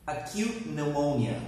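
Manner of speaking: "pneumonia" starting straight on an n sound; silent P. Shown as a demonstration. Teacher models a tricky word for students, silent P in "pneumonia". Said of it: "we do not pronounce the P".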